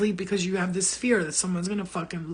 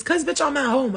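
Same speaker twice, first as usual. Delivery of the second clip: sassy; 7 semitones higher, 6 dB louder than usual. Real, not acted. Defends pimple cream on live.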